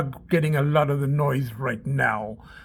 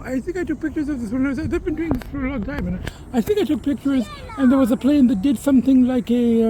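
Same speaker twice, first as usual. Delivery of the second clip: higher-pitched cat voice grumbling about humans; the house cat voicing its disdain; cat persona; 4 semitones higher than usual. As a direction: speak as the cat, baffled by people.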